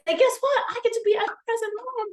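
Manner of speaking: choking up but pushing through; holding back tears. Real, not acted. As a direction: force it out through a lump in the throat. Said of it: "gonna swallow the gulp in my throat".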